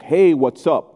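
lightly voiced awkward casual prayer; hesitant, offhand beginner praying; amateur new believer. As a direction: fumble through a prayer like a chat, with halting gaps. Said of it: "they'll just pray like they talk".

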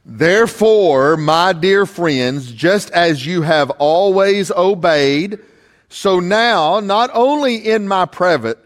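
slow, measured Bible reading; scripture reading. Acted. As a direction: read the verses with weight. Reads scripture to the congregation.

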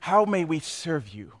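soft, low, grovelling flattery; bow and scrape to the big boss; hushed obsequious greeting; fawning underling. Acted. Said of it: "the C E O walks in".

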